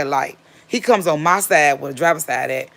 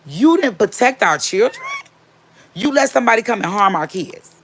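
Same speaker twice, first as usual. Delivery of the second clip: angry accusation; 7 semitones higher, 3 dB louder than usual. Retold or imitated. Wife confronting husband over harmed kids, angry.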